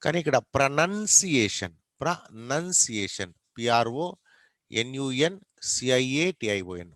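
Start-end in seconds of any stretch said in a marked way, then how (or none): 0.4-1.7 ప్రొనౌన్సియేషన్ with "nun", not "noun", in the middle; stressed NUN syllable. Shown as a demonstration. Teacher correcting a common misspelling, careful pronunciation. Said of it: "ప్రొనౌన్ కాదు". 2.0-3.3 ప్రొనౌన్సియేషన్ split as pra, nun-si-e-shan; broken into syllables. Shown as a demonstration. Teacher breaking up the word for learners, syllable by syllable. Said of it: "ప్రొనౌన్ కాదు".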